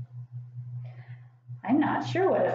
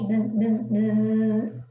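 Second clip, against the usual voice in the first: buzzing; 2 semitones lower, much slower than usual. Shown as a demonstration. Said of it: "What kind of a sound do bees make?".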